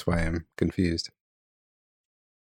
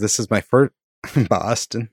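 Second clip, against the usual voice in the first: put-on a Minnesotan trying a Boston accent; half-hearted Boston accent, Minnesota showing through; 2 semitones higher than usual. Reading a reader's letter aloud in a bad Boston accent. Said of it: "a Minnesotan accent on a Boston accent".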